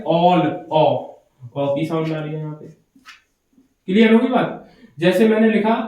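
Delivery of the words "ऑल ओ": ऑल said with a rounded aw vowel; lower, rounded ऑल vowel demo; sound of a in all. Shown as a demonstration. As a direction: draw out ऑल, then ओ, to show the sound. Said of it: "ए की sound कैसी आ रही है?".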